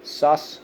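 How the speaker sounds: "Suspect" split as SUS, pect, first syllable high. Shown as a demonstration. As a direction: sound out "Suspect" in two parts, stressing SUS. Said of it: "On the first syllable".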